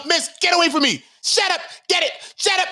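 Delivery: snapping at her, retold; retold brush-off. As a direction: wave her away. Quoting his own messages.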